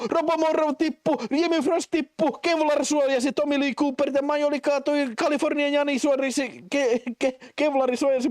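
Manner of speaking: excited, high rapid-fire commentary; live play-by-play. Real, not acted. Streamer calling who falls in the battle to viewers, excited play-by-play. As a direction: call every fall like a sports caster.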